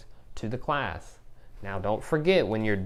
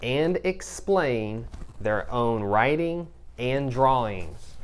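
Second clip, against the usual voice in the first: slow read aloud; slower than usual. Shown as a demonstration. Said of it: "It says".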